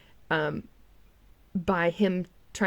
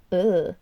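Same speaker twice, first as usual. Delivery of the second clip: disgusted ugh; 6 dB louder than usual. Retold or imitated. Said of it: "he's making, like, this, this, like".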